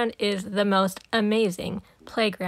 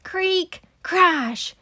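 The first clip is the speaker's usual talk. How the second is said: sound effects; 8 semitones higher than usual. Acted. Playground torn down by the crew, voiced creak and crash. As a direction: play the noise of things falling down.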